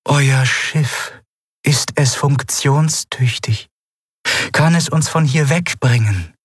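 high, slow, measured alien voice; cool alien interrogator, pitched high; aloof alien. Acted. Alien stranger questions the crew.

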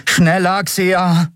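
high, pressing urgency; urging. A narrator's reading. Miko to the pilot at the dome, urging. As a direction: push the pilot to hurry. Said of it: "drängte Miko".

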